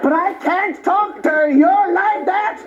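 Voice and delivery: put-on questioning comeback in an Indian accent; mock Indian accent. Comedian retorts to the doctor, mimicking his Indian accent. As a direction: turn it back in an imitated Indian accent. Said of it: "this Indian doctor came out".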